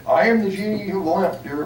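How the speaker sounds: lightly voiced genie, first try; a hint of a genie announcing himself. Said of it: "It worked better down there".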